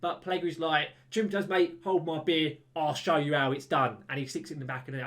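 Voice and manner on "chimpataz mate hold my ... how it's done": lightly put-on Cockney, cheeky; a hint of a Cockney lad showing off; imitating a cocky Cockney footballer; mock Cockney. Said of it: "Pellegrini's become Cockney".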